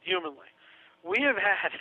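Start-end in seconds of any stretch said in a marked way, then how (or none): 1.1-1.7 heavily sarcastic set-up; tongue-in-cheek. Real, not acted. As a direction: announce it with mock gravity. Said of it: "say this with tongue in cheek".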